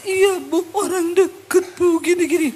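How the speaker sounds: lightly imitated weeping; a touch of a sobbing woman; crying woman. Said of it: "Dia nangis".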